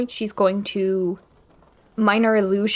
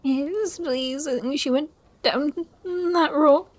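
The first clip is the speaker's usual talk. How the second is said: put-on a touch of a high child voice; helpless child; 5 semitones higher, slower than usual. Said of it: "Look all helpless".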